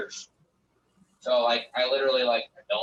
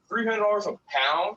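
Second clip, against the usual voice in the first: high, louder, rising disbelief at the price; incredulous; 10 semitones higher, 4 dB louder than usual. Retold or imitated. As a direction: echo it back, stunned by how cheap. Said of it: "I'm like".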